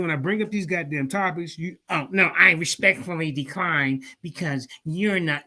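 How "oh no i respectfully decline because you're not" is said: slow, put-on formal decline; mock polite refusal. Mocking a rival who ducks debates, put-on polite voice. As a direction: lightly imitate someone politely backing out.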